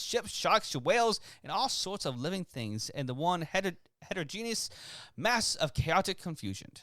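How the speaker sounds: put-on British reading of a quote; lightly hammed-up British orator; British accent. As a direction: read it in a swooping, mock-British voice. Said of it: "I put it in the British accent".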